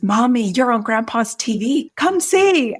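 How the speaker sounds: put-on high, eager child calling mommy; little daughter calling out, high and eager; excited little girl. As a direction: call her over like an excited kid. Daughter calling her to the tablet.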